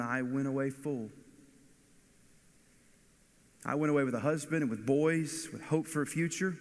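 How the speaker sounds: a preacher voicing Naomi's bitter grief; Naomi's lament. Naomi telling the village women her bitterness, voiced lament.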